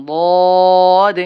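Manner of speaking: দদ loud and thick; heavy dad. Shown as a demonstration. Teacher showing students the thick দদ. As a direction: make দদ heavy and full. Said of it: "দদ হরফটা কিন্তু মোটা করিয়ে পড়তে হবে".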